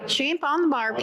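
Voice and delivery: attempted Australian accent. Shown as a demonstration. Echoing the others' attempts, attempted Australian accent. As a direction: have a shaky go at Aussie. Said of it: "I can't do an Australian".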